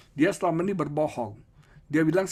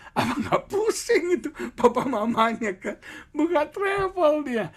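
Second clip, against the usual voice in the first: exasperated; 11 semitones higher, 4 dB louder than usual. Acted. Mock exasperation at the child.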